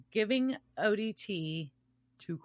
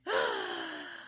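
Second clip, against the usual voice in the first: sharp intake of breath; sudden gasp; 4 dB quieter than usual. Real, not acted. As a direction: gasp as if remembering something. Sudden realization mid-chat.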